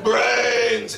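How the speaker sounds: moaned zombie call for brains. Acted. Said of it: "That's my zombie voice".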